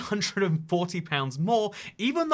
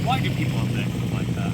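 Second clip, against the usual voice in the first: half-voiced whisper to herself; whispered aside; 2 semitones higher, 3 dB louder than usual. Real, not acted. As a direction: mutter the question under the breath. Baffled aside at passing vehicles.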